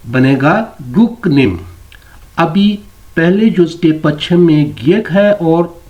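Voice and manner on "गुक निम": "गुक निम" with the second syllable starting on n; रियल की जगह नियन. Shown as a demonstration. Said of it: "तो रियल जो है, ये अपनी साउंड देगा नियन में". ("गुक निम" में र की जगह न की आवाज़)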